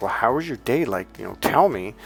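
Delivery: insistent, pressing tone. Retelling how the wife pressed her husband about his day: imitating an insistent demand. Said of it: "she kinda dug her heels, and you, and her voice was like".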